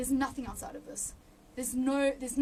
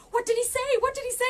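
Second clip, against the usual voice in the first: much higher and louder, bursting with curiosity; eager excited question; 11 semitones higher, 8 dB louder, faster than usual. Retold or imitated. Friend begging to hear what God said, excitedly. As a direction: pepper her with the question, dying to know.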